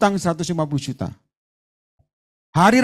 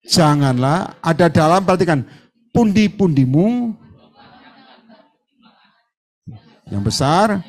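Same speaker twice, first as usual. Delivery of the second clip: slow reading; slower than usual. Shown as a demonstration. Preacher leading the church in slow scripture reading. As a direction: read it slowly, word by word. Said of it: "pelan-pelan".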